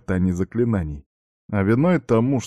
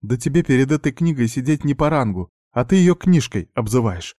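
scolding; 5 semitones higher than usual. Acted. Marjana keeps scolding the lad.

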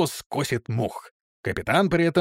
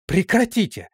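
high, sharp order Прекратите!; woman breaking up a brawl, sharp order; commanding shout; 7 semitones higher than usual. A narrator's reading. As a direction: stop the fight with one word. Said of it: "закричала Исидора".

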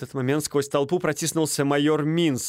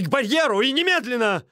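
much higher, pressing hard on немедленно; fussy demand; 13 semitones higher, 4 dB louder than usual. A narrator's reading. Стольский demanding the duel at once, high and urgent. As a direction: insist on the barrier right now. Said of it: "суетился Стольский".

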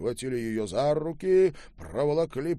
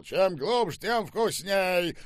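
high, loud, stretched gloat; jeering shout; 8 semitones higher, 5 dB louder, slower than usual. A narrator's reading. General eggs his officers on, jeering shout. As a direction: crow it mockingly, drawing out the ending.

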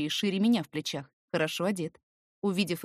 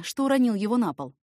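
ordinary delivery, nothing marked

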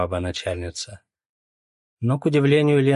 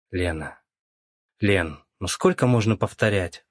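взмолился. Acted. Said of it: "взмолился он".

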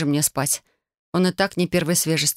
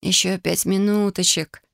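moaning; 3 semitones higher, slower than usual. Acted. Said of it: "простонала я".

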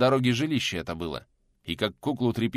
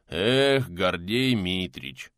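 deep booming bass; much slower than usual. Acted. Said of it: "басом прогудел один из сопровождающих".

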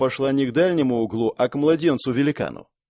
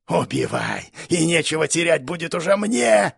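high monster screech; louder shriek; 4 semitones higher than usual. Acted. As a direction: screech back even louder. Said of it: "ещё громче завизжала жердяйка".

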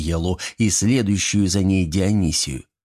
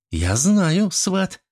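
higher, smug and lofty; haughty reply; 9 semitones higher, much slower than usual. A narrator's reading. Niela answers the gremlin haughtily. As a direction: answer down your nose, smug. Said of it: "надменно ответила".

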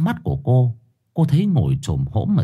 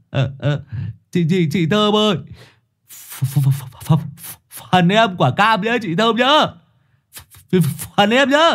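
high, stuttering plea for his share; stammering fat boy; 11 semitones higher than usual. A narrator's reading. Fat boy stammering at Thơm for his orange. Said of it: "bị bạn lôi đi mà vẫn cứ lấn cấn".

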